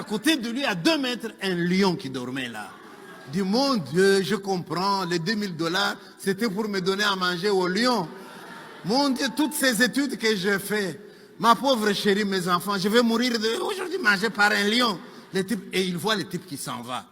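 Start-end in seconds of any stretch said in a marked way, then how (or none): 3.4-15.0 mock panicked lament. Man laments waking beside a lion.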